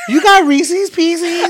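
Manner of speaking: very high, loud, slow mock shriek breaking into a laugh; hammed-up shrieking mimic; mocking squeal. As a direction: overdo the annoying voice until you crack up. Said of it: "I can't stand when people be like".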